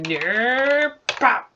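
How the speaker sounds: high, loud squeaky creature noise; squeaky stick figure pop; cartoon pop voice. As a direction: chirp it out like a little cartoon figure. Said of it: "him going like".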